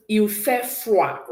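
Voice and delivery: "Il fait froid" said slowly; slow model. Shown as a demonstration. Teacher models cold weather phrase slowly for class. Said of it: "Can we say that?".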